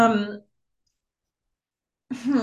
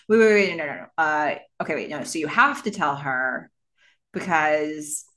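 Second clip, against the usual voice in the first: stop-start acted indecision; flip-flopping dithering; 4 semitones lower than usual. Roommate changing his advice mid-sentence, flip-flopping dithering. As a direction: keep cutting yourself off and reversing. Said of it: "Sean keeps going back and forth".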